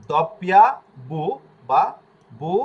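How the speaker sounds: দপিয়া, loud and clear; Italian letter W, doppia. Shown as a demonstration. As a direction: say দপিয়া loudly, rising. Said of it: "এটা কিন্তু আমরা ডব্লু বলি".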